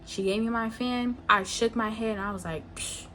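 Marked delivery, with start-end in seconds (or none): 2.8-3.0 soft, dismissive psh; quiet retold scoff of irritation; irritated scoff. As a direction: puff out a quick irritated hiss. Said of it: "like, I'm irritated".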